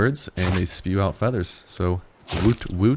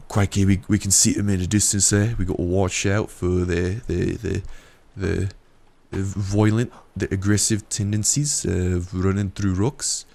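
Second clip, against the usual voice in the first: mock Australian wildlife-show accent; a loose Australian croc-hunter voice. Narrating the game like an Australian hunter, mock accent. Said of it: "I was going for an Australian accent there".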